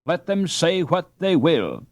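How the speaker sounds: high, mock-grand fairy decree; playful solemnity. Annie as fairy godmother granting Hans his wish, mock-grand. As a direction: pronounce it like a fairy queen. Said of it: "with playful solemnity".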